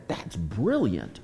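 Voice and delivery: slow, deadpan "that's brilliant"; dry praise. Retold or imitated. Answering his sponsee at last, slow deadpan praise. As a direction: savour it slowly, tongue in cheek. Sponsee finally tackles the taxes.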